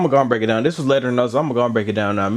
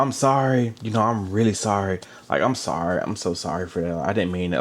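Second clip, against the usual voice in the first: mock apology; 3 semitones lower, 4 dB quieter than usual. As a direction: fake sorry fading softer and lower. Mocking fake apologies.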